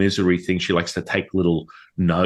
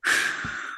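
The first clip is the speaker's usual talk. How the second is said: mother's sigh; 6 dB quieter than usual. Retold or imitated. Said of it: "the mother going".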